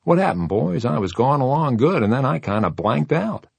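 high, lilting puzzled voice; bewildered. A narrator's reading. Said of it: "a bewildered look that seemed to say".

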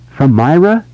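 sudden high startled question; alarmed. Acted. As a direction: sound caught off guard. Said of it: "He sounded alarmed".

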